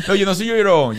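laughing while protesting; chuckling no, not a crybaby; laughing denial. Real, not acted. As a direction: laugh through it, insisting.

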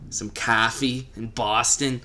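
slow, put-on Boston accent; mock Boston local. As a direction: draw out the Boston vowels in coffee. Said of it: "the accents in The Departed".

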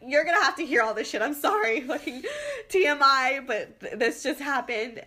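loud, fast apology, laughing through it; rushed sorry to the driver, half laughing; apologizing to the Lyft driver, loud and laughing. Retold or imitated.

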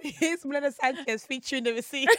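quoting through laughter; laughing retelling. Retold or imitated. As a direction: repeat it while laughing. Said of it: "She said".

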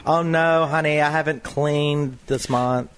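Sandra Bernhard impression. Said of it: "I could do Sandra Bernhard".

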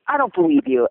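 imitating a flustered fan, high-pitched; high, mock freaked-out disbelief; freaking-out fan. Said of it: "he was freaking out".

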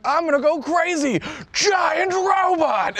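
high, drawn-out shout; mock freak-out. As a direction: yell it like a panicked villain. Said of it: "she's like".

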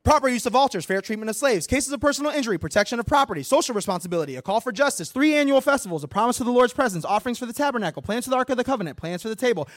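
breathless list rattled off without pausing; rapid-fire bullet points. Shown as a demonstration. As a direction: race through it on one breath. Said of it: "I'm gonna bullet point all the things".

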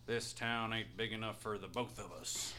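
low, soft Western showdown growl; theatrical showdown line. Acted. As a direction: deliver the classic gunfighter threat. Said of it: "He turns theatrically".

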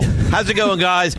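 imitating his cheery greeting; mock host greeting; mimicking the host. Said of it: "Now I'm Chris and Wontalk".

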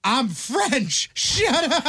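high, brash New York accent mock. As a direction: snap it like a brash New Yorker. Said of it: "With the heaviest New York accent".

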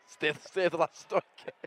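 laughing attempt at Geordie; Geordie accent. Co-host copying the line, stumbling Geordie accent. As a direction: echo the mock Geordie line through laughter. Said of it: "That's how I get into my Geordie accent".

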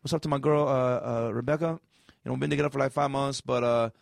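a hint of a laid-back guy shouting out his girl; mock radio caller. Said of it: "it's like a guy being like".

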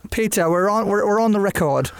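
amateur attempt at sounding British; British accent. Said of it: "to you in a British accent".

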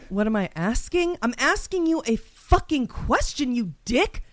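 indignant, disbelieving comeback to a question; mock-outraged confrontation; rage fantasy. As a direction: rant at someone who won't answer. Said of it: "here is the rage fantasy sequence".

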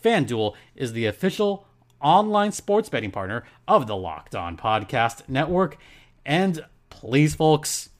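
lively podcast sponsor read. Acted. Host to listeners about a betting sponsor, ad read. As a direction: sell it to the listeners with punched phrases.

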